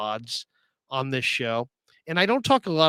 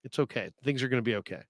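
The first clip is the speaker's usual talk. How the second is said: patient reassurance; 7 dB quieter, faster than usual. Acted. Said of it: "Matty has patience".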